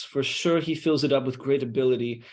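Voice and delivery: usual speaking voice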